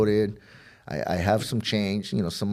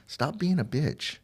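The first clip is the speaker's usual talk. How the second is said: higher, drawn-out imitated rebuke; retold scolding; 7 semitones higher, slower than usual. Crimey telling him to quit crying, scolding. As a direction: scold like a buddy, slowly and without volume.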